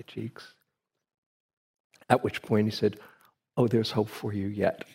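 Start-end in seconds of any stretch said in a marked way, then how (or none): 3.6-4.8 chuckling through the words; amused teacher. Retold or imitated. The teacher approving the student, chuckling. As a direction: laugh warmly as you approve.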